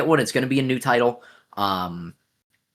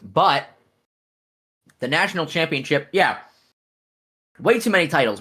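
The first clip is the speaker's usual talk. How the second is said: talking while chewing candy; words round a chewy candy; mouth full. Real, not acted. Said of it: "I have a high chew in my mouth right now".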